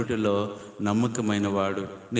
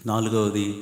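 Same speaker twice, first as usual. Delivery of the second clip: normal talking voice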